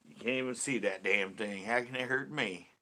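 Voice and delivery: playful southern twang; mock-defiant southern accent; put-on southern accent. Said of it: "I put on the southern accent".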